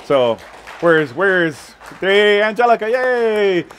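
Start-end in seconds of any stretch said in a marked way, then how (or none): 2.0-3.7 higher, louder joyful welcome; cheering the newlyweds from the pulpit; excited cheer. Real, not acted. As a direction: call her name out with delight.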